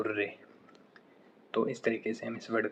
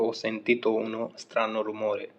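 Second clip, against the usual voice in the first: very slow, every word separate; slow model sentence; much slower than usual. Shown as a demonstration. Teacher modelling the strange noise sentence, very slow. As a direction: dictate it gently to the class. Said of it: "जैसे कि किसी को बोलना होता है कि".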